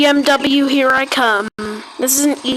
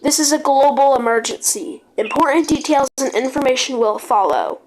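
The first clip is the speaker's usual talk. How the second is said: news-anchor alert read, steady and formal; mock emergency broadcast; 2 semitones higher than usual. Gamer announcing a pretend disaster to the server, announcer voice.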